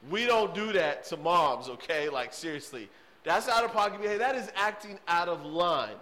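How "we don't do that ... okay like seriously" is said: put-on stern talk to kid. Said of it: "grab that kid and be like".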